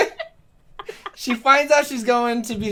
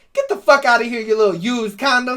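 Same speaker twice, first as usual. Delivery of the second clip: mock angry insult; 3 semitones higher, 5 dB louder than usual. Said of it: "In the blooper, she says".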